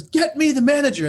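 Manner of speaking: loud, high angry demand; acted outraged father demanding service; furious dad. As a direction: bellow an order in a fury. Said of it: "Oh, he was furious".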